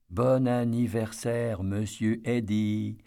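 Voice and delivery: put-on slow sing-song kids' greeting; drawn-out chorus of kids; children in chorus. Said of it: "s'écrie en chœur un groupe d'enfants".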